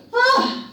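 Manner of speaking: loud, high exhale of relief; acted whew of relief; relieved "oh". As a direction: let out a big "oh" of relief. Wiley's relief after escape.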